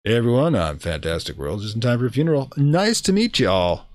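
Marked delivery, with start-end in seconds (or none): 0.0-1.6 hot greeting. Pretend. Streamer greeting the diner with the hot option, mock-flirty. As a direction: purr it like a smooth charmer. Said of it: "we have to use the hot option here".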